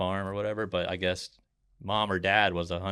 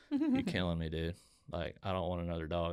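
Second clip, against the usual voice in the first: exasperated; 4 dB quieter than usual. Retold or imitated. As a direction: plead like he's being tortured. Retelling protest at dog photos.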